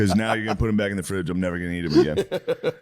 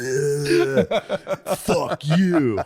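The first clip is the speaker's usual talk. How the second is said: laughing defiance; 4 semitones higher, much slower than usual. Retold or imitated. Dumping beer, defiant.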